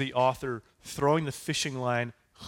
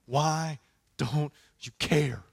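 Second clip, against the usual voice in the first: slow anguished plea; slower than usual. Acted. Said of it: "hitting his chest and going".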